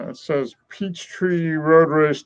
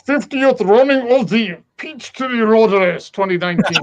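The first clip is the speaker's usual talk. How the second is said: hammed-up German accent, slipping toward Russian; mock German accent; 5 semitones higher than usual. Translating a shirt for a co-host, mock German accent. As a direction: fake a German accent, higher in pitch. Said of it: "I can convert it to German".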